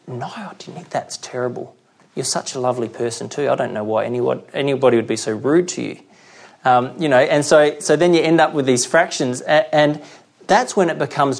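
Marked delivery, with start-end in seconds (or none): 0.1-6.0 soft, cooing agreement; sympathetic gossip. Retold or imitated. Friend sympathising with the gossip, soft and cooing. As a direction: soothe the offended friend in a hushed voice.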